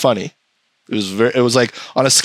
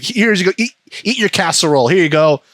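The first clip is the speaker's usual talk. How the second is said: lightly voiced pushy cook, pitched higher; pushy food-forcer; 5 semitones higher than usual. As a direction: play someone insistently pushing food, slightly hammed-up. Voices someone forcing casserole on him.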